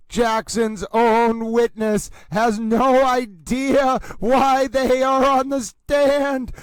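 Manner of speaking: slow, drawn-out fight announcer call; mock boxing announcer, slow and grand; dramatic announcer. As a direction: announce the downfall like a ringside knockout call.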